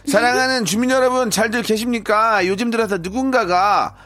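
announcer voice. Acted. Apartment office PA announcement.

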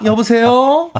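polite Seoul standard hello; standard Seoul phone voice. Retold or imitated. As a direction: switch to prim Seoul speech. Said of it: "갑자기 표준말".

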